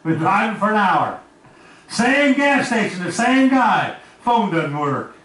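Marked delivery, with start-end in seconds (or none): 1.9-4.0 high, slow and drawn out on "same"; emphatic disbelief. Acted. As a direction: lean hard on each "same". Punchline of the driving story.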